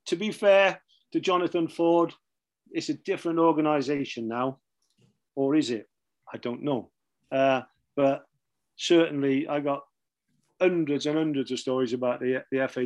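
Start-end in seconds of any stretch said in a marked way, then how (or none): none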